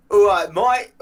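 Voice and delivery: high, loud caricature of a mate; mocking impression of friend. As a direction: mimic your friend in a put-on voice. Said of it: "do me".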